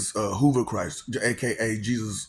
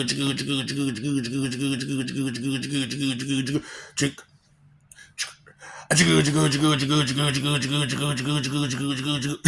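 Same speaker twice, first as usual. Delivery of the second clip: machine chugging; faster than usual. Retold or imitated. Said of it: "just stand there and chugga".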